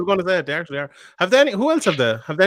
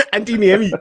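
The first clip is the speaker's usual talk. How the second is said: Scottish accent try; 5 semitones higher than usual. Shown as a demonstration. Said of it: "I can't do it".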